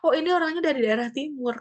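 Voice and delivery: hint at an eastern Indonesian lilt. Shown as a demonstration. Teacher guessing where a speaker comes from, light eastern Indonesian lilt. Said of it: "kalau berbicaranya pakai irama-irama".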